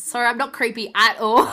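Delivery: amused apology, slightly loud; laughing disclaimer. Real, not acted. Speaking to her crush in case he listens, laughing disclaimer.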